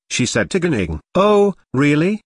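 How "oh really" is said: high, loud mock-surprised "really"; unimpressed, daring retort; unafraid challenge. A narrator's reading. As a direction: toss it back with cool disbelief. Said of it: "Ganing asked, but didn't seem scared".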